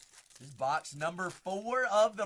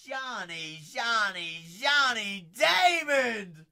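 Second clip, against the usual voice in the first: building excitement; 5 semitones higher, 8 dB louder, much slower than usual. Real, not acted. Breaker spots a Johnny Damon card, building to a shout. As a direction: build from a call to a big yell. Hit pulled on stream.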